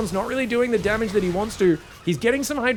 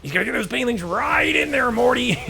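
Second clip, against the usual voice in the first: lightly voiced mad scientist casting; a hint of drunken Rick talking to Morty; Rick Sanchez impression; 3 semitones higher than usual. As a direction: loose mock Rick voice. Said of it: "Is this Rick Sanchez casting?".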